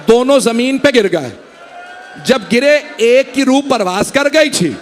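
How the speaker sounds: rising, intensifying grief recital; mourning recitation. Acted. A reciter narrating the sons' martyrdom to mourners, swelling lament. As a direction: build the lament toward the climax.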